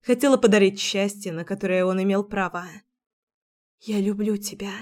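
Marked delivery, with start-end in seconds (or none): 3.8-4.7 unvoiced whisper of love. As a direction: breathe it as a secret. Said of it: "мысленно шептала".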